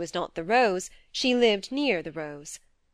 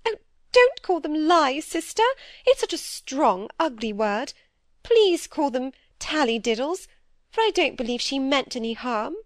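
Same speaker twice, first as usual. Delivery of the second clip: higher, fretful little-sister voice; timid younger sister; 6 semitones higher, 4 dB louder than usual. Acted. Phoebe fearfully confessing to her sister, higher anxious pleading.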